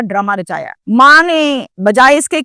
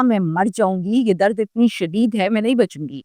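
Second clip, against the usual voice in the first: soft, lower-energy quote of a suffering daughter; subdued retold plea; 3 semitones lower, 6 dB quieter than usual. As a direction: voice her despair softly, understated. Retold daughter fears dying. (دبی ہوئی، دھیمی فریاد)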